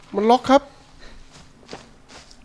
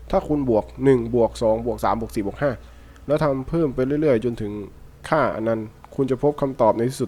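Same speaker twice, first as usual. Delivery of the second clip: lower, measured note-reading voice; 3 semitones lower than usual. Acted. Player reading a found note aloud to viewers, in a low steady read.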